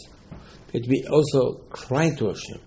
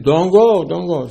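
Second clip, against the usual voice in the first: pleading warning; 5 semitones higher, 5 dB louder than usual. Retold or imitated. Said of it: "Moshe said".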